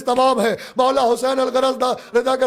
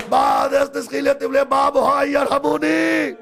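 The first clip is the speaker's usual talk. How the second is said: impassioned preaching; full-force preaching. Acted. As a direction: cry it out to the mourners. Majlis preacher rising to full force.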